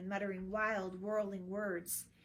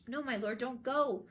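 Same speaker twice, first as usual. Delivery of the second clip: louder, pleading call; urgent plea; 4 semitones higher, 8 dB louder than usual. A narrator's reading. Guard begging the prince not to follow, louder pleading. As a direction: hold him back with your voice.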